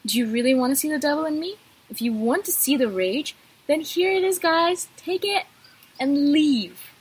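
indignant retold ultimatum; retold rage. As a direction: act out a controlled burst of rage. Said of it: "then I think to myself".

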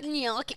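"gnocchi" with a strong ny, nyol-kee; overdone Italian-style "gnocchi"; put-on gnocchi. Real, not acted. Ordering food with a put-on accent, overdone gnocchi. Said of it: "I hate when you say that".

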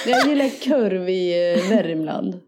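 slow Värmland drawl; Värmland accent. Acted. Joking along in the challenge, Värmland accent. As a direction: imitate Värmland dialect slowly. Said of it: "Det är lite värmländska".

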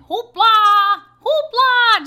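shrieked cartoon yell, high and loud; screaming hoopla. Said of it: "This kid screaming hoopla".

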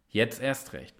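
Jetzt erst recht said softly to oneself; the slogan said quietly after the shout; quiet repeat. Shown as a demonstration. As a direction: murmur the motto low and soft. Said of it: "und jetzt mach mal mit zu Hause".

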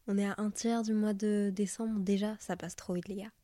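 stuffy, blocked nose; talking through a head cold; nasal voice. Real, not acted. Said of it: "mais je parle du nez".

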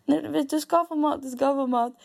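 high-pitched, stretched okay, then urging; mildly frantic promise to a hungry baby; retold flustered reassurance. Stressed mother to her crying hungry baby, flustered reassurance. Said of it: "Så han har fullt panik".

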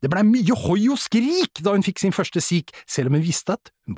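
reciting a comic verse with measured pauses; limerick recital. Real, not acted. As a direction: recite a homemade limerick, lifted at the build-up. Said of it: "jeg har laget en liten limerick".

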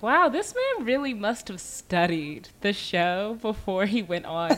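slow, impressed reaction; mock amazement, slow. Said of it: "immediately I was like".

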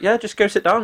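high, offhand mock barman brush-off; dismissive barman. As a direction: toss it off like a bored barman.

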